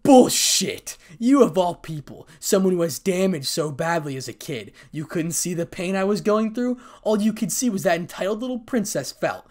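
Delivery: loud, high, furious interruption; angry outburst. Acted. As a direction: cut in shouting with outrage. Acted quarrel, furious interruption.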